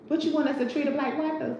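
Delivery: mock the plantation owner's outrage; lightly voiced Big Daddy; acting out Big Daddy. Repeat of movie line.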